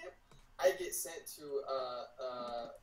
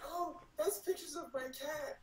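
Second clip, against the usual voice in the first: laughing quote; 9 semitones higher, 4 dB quieter than usual. Retold or imitated.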